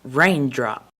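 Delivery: loud, slow instruction; bossy teacher. Retold or imitated. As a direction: spell out the task sternly.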